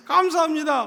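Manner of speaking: shouted thanks. Retold or imitated. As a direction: call it out like a triple amen. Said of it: "막 큰 소리로 외치는데".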